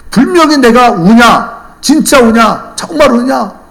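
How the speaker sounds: high, loud indignant questions; acted anger. Cheated buyer recalls questioning the seller, indignant. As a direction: fume through each repeated question, hammed up. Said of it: "너무너무 화가 났어요".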